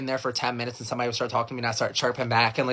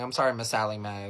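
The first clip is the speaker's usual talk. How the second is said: low, soft, grudging apology; sullen apology; 4 semitones lower, 4 dB quieter than usual. Acted. Irritated kid apologizing to teacher, sullen. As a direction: mumble it like a sulking kid. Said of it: "I'm so irritated".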